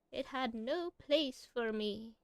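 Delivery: lightly voiced old woman; a hint of granny voice; old lady voice. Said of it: "You guys like my old lady voice?".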